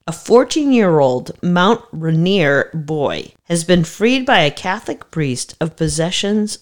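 formal newsreader voice; news read. Acted. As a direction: read it like a headline. Reads out news article.

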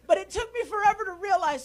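laughing through the words. Real, not acted. Preacher laughing at his own late comeback to the congregation, laughing.

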